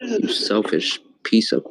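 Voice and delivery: rising angry yell; angry outburst. Real, not acted. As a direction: spit out the insult.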